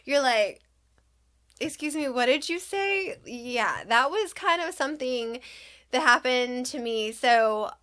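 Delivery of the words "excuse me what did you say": mock-startled question, pitched up; taken aback. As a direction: ask it in mild disbelief. Startled reaction to child's odd word.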